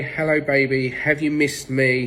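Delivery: mock gushing baby-talk greeting, drawn out at the end; high-pitched baby talk. Shown as a demonstration. Owner coming home to the dog, high-pitched baby talk. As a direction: coo it slowly, like talking to a baby. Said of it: "None of this high-pitched baby talking".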